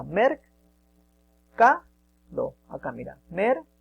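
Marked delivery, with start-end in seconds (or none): 0.0-0.4 syllable by syllable. Shown as a demonstration. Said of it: "la forman tres". 3.3-3.7 mer, ca, do, each set apart by a pause; syllable by syllable. Shown as a demonstration. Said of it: "cuántas sílabas forman la palabra".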